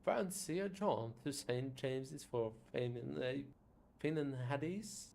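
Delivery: put-on a tentative Scottish accent on an offered jaunt; attempted Scottish accent. Inviting a friend to Saint James's, attempted Scottish accent. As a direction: try a Scottish lilt, a bit unsure. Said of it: "which accent is Scottish".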